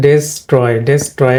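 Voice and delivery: ডেস্ট্রয় opened with "des", an e vowel; common mispronunciation. Shown as a demonstration. Teacher showing how the word looks to learners, common mispronunciation. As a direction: say ডেস্ট্রয় as the spelling suggests, DES-troy. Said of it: "আমাদের দেখে মনে হচ্ছে".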